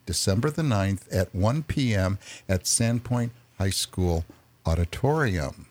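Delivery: measured read-aloud of an announcement; reading a press release. Real, not acted. Radio host reading a press release to listeners, measured announcement delivery. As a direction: read it out evenly, phrase by phrase. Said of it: "my reading the press release".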